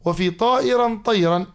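slow, measured line of didactic verse; verse citation. Acted. Teacher quoting the poem's verse to a student, measured recitation. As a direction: recite it deliberately, word by word. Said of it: "نجده في قول ناظمها".

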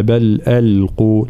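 slow measured tajweed recitation; تلاوة متأنية; Quran recitation. Shown as a demonstration. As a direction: recite slowly with careful tajweed. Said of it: "ترقيق الهمزة واللام ثم تفخيم القاف".

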